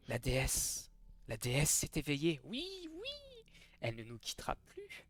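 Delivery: eerie, devout murmur; murmuring cult leader. Acted. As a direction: chant it like an entranced zealot. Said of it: "elle murmure avec en écho".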